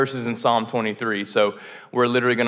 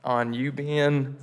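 mock prayer; 2 semitones higher, slower than usual. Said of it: "But I'm just like".

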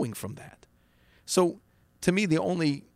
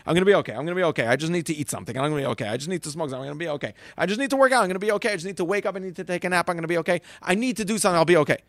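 anxious self-talk; much faster than usual. Retold or imitated. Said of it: "Instead of trying to have the need of certainty".

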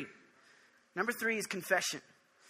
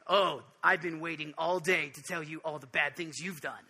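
scolding God, imitated; 5 semitones lower than usual. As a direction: lightly play a God eager to list faults. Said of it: "where God is saying".

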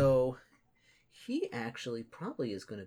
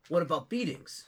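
orc voice; 6 semitones higher, 5 dB louder than usual. Acted. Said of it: "be like".

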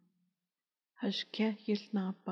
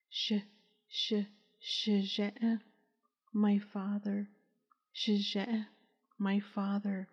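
faint, rasping, broken whisper; hoarse whisper. Acted. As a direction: choke the words out in a hoarse whisper. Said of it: "a hoarse whisper was all that was heard".

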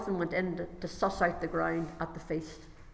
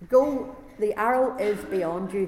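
slow, louder call across the field; 6 dB louder, slower than usual. Acted. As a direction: call the boy from far off, drawn out. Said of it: "he called to this little boy".

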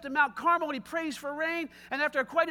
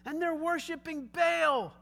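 stern rebuke; 4 semitones higher, slower than usual. Retold or imitated. Eli rebukes Ahab.

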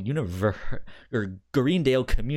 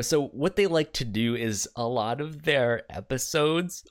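with hiccups; 2 semitones higher than usual. Real, not acted. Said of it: "I have the hiccups".

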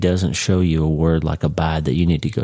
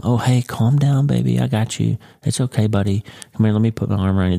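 mock cooing comfort; 3 semitones higher than usual. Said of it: "God's not whispering here".

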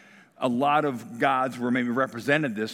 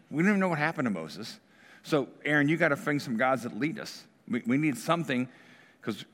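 impatient crowd. Retold or imitated. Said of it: "and now they're impatient".

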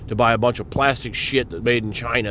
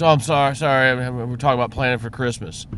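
higher, airy apologetic barista; imitating the barista; 3 semitones higher than usual. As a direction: play her flustered and apologetic. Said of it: "She goes".

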